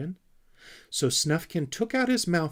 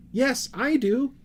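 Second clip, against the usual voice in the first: shouted; 14 semitones higher, 7 dB louder, slower than usual. A narrator's reading. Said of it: "shouted Sniff".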